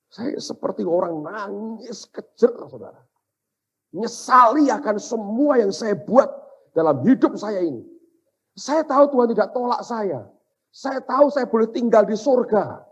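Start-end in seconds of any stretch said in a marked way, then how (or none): 4.0-12.8 impassioned preaching. Real, not acted. Preacher tells congregation of his regrets, impassioned.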